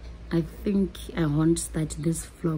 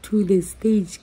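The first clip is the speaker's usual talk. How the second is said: excited; 3 semitones higher, 4 dB louder than usual. Real, not acted. Excited build through ticket upgrades.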